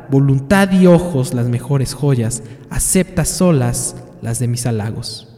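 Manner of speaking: poem recitation. Acted. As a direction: proclaim the love poem with ceremony.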